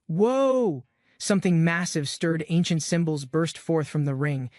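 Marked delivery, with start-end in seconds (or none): 0.1-0.8 sudden high startled gasp of a word; gasped whoa. A narrator's reading. Tsuyoshi startled by light from his chest, high gasp. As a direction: caught off guard, voice jumps up. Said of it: "He gasped".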